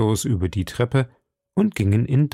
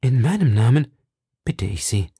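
tender plea. Acted. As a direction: plead gently, tenderly. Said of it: "mit lebhafter Rührung".

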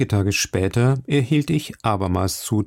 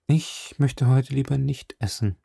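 withdrawn Bartleby; 4 semitones higher than usual. Acted. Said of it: "sagte Bartleby und wandte sich".

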